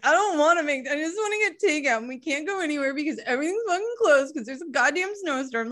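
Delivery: whiny, sulky complaint; pouting. Retold or imitated. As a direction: grumble like a pouting child. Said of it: "pouting, pouting".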